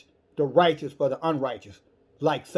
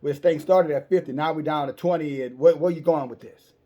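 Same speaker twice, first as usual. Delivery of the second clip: mildly agitated angels; 4 dB louder than usual. Retold or imitated. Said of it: "these angels are kinda getting a little agitated".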